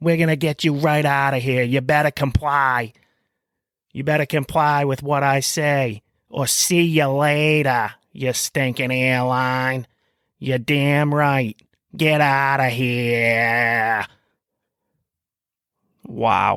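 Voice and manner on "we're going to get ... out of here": slow, tough, exaggerated put-on Boston accent. Mocking the new office head threatening airlines: mocking tough Boston accent. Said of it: "her big, bad Boston accent".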